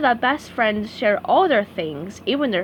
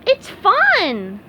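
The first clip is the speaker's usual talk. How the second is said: SpongeBob voice; 9 semitones higher, 5 dB louder than usual. A narrator's reading. SpongeBob inviting Squidward.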